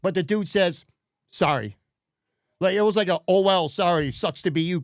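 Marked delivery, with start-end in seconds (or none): 1.3-1.8 imitating an offhand, uncaring sorry; dismissive sorry. Store guy brushing off an annoyed customer, mock dismissive apology. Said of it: "kind of sorry". 3.3-4.8 imitating a careless brush-off; sucks-to-be-you sorry. Store guy to a customer left without beer, mock dismissive sorry. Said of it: "kind of sorry".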